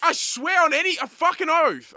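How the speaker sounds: high, loud exasperated yelling; shouting. Real, not acted. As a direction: yell it, losing patience. Friends shouting at each other.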